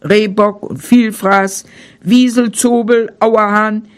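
calm storyteller reading a bedtime tale; fairy tale narration. A narrator's reading. Narrator reading a bedtime tale to children, calm. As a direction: tell it gently to the children.

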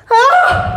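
sudden high shriek; loud shriek. Acted. Woman shrieks on seeing her young hands. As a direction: shriek in shock.

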